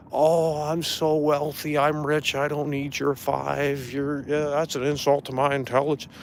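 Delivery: sing-song, drawn-out mock bragging; mock rich big shot. Imitating the performer on his phone refusing five dollars, mock pompous. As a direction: mimic his wealthy act in an even drone. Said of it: "he's gotta pull his cell phone out".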